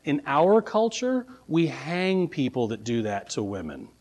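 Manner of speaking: measured, dropping to a soft deadpan finish; wry. Acted. Governor warning locals about burning widows, wry understatement. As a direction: deliver the threat as a polite cultural note. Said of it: "very wryly said".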